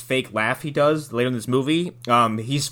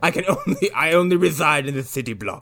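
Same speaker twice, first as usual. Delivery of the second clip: ghostly butler; 2 semitones higher than usual. Pretend. Riffing as dead butler's ghost.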